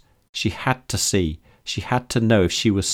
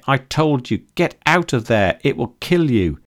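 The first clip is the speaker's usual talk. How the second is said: urgent shouting; 6 semitones higher than usual. A narrator's reading. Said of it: "screamed May".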